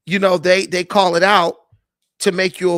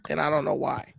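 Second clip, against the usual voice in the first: whisper; 4 semitones lower, 9 dB quieter than usual. Real, not acted. Muttering to himself about mic.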